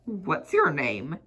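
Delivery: a hint of a gentle old tramp. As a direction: soothe the frightened little man. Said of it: "said the tramp gently".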